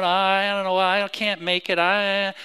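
lightly voiced complaining child, droning on; mock whining child. Preacher mimicking children moping around the house, mock whining.

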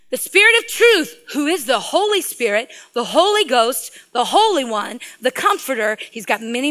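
emphatic, rolling scripture proclamation; preaching. Real, not acted. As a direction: preach it phrase by phrase, lifting the key titles.

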